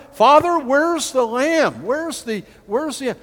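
loud, slow pleading call to father; Isaac's plea. Acted. Preacher voicing Isaac asking Abraham, loud and pleading. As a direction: cry out like the boy on the mountain.

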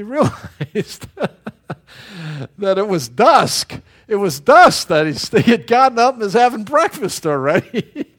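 telling the punchline through laughter; high, loud and cracking up at own story; laughing. Real, not acted. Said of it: "Makes me laugh".

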